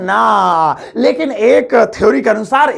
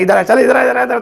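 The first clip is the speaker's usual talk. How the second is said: rude informal summons; 3 semitones higher, faster than usual. Shown as a demonstration. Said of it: "ये हो गया informal".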